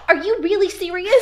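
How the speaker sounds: very high, loud, hammed-up disbelief; heightened incredulity. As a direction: blurt it out in exaggerated astonishment.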